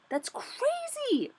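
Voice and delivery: hoch und langgezogen, fassungslos; stunned disbelief. Real, not acted. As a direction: stretch it out high in disbelief. Stunned by her trading loss.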